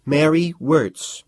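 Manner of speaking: flat, slow, deadpan reply; student answering the major deadpan; without emotion. A narrator's reading. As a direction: give your name coolly, no feeling. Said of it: "Her voice was totally without emotion".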